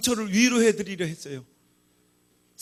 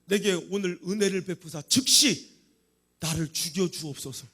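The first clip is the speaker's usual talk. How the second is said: low, subdued plea; sunken, resigned acted plea; despairing prayer; 5 semitones lower than usual. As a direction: beg God wearily for an end. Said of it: "주여".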